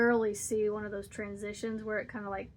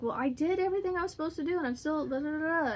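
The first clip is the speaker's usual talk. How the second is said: exasperated daughter; 5 semitones higher, faster than usual. Retold or imitated. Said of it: "she's like".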